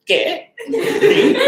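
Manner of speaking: very high, laughing squeal; giddy indignation. Retold or imitated. Daughter answering dad's disbelief, high giddy squeal. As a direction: squeak it proudly through a laugh.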